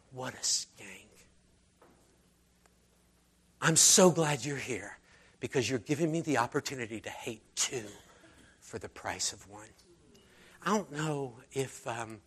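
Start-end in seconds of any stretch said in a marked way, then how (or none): 0.1-9.7 softer, contemptuous aside; sneering host. Retold or imitated. Host mocking the woman and Jesus, softer and sneering. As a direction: sneer it under your breath. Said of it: "looked at her and said".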